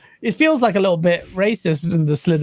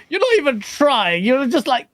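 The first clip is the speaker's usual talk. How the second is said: retold complaint; 6 semitones higher than usual. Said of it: "I'm like".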